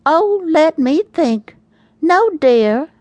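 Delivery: high, slow, drawn-out mock innocence; sing-song sarcasm, milking the pause; sarcastic holler. A narrator's reading. Wife hollering back at her husband, heavy sarcasm. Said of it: "hollered back with a healthy dose of sarcasm".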